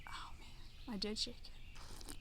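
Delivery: whispered dismay; breathy whisper, oh man. Real, not acted. Foamy beer after shaking.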